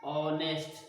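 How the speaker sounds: ऑनेस्ट said with a silent h, opening on an o vowel; pronunciation demo. Shown as a demonstration. Teacher to students, showing how ऑनेस्ट is read, with a silent h. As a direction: model ऑनेस्ट for the class, starting straight on the vowel. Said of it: "क्या पढ़ते हैं?".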